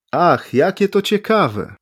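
high, slow delighted exclamation; exclaiming. A narrator's reading. Foreigner exclaims to the writers, delighted and high. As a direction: savour it with wide-eyed delight. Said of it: "wykrzyknął cudzoziemiec".

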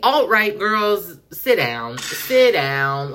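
high, slow mocking sing-song; mock call-out. Mocking the alt-right girls, slow and high. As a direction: drawl it out to mock them.

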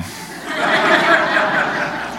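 airy wheezing laugh at his own story; wheezy laugh; breathless silent laugh. Real, not acted. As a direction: let a silent laugh shake out.

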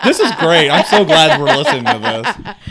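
sarcastic fake enthusiasm. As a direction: gush sarcastically through a laugh. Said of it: "Is that sarcastic?".

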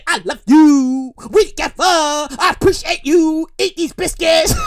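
slow opening, hammed-up lovey-dovey; mock sweet talk, about to crack up; mock romantic declaration. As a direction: stretch out a cheesy love pledge. Repeats the cheesy gift declaration.

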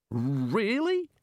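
high, rising query with menace; dangerously bright. A narrator's reading. The Arch-Chancellor challenges Rincewind's slight, dangerously bright. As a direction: sound brightly interested, as a warning. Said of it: "with dangerous brightness".

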